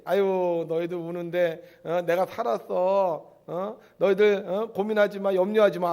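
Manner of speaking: loud, slow, fond reassurance; comforting risen Jesus. Acted. Risen Jesus loudly comforting his disciples, slow and reassuring. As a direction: call out to the frightened disciples like a relieved friend.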